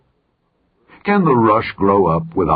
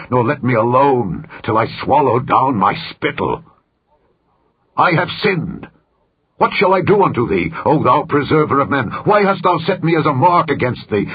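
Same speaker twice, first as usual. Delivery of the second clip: raised, pleading cry of anguish, higher in pitch; anguished lament; 4 semitones higher than usual. Acted. Job crying out to God in bitter anguish, pleading. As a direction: plead upward in bitter despair. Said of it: "I will complain in the bitterness of my soul".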